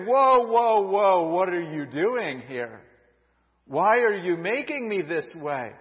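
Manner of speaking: the clay suddenly protests to the potter; startled clay. Retold or imitated. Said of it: "Does the clay suddenly speak up and say".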